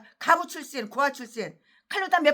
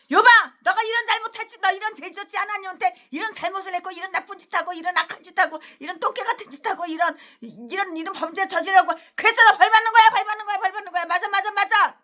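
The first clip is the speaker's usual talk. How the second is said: harsh rebuke; 4 semitones higher than usual. Acted. Friends berating Job for his sins, harsh scolding. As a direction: hammer him with blame. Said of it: "이런 식이겠지".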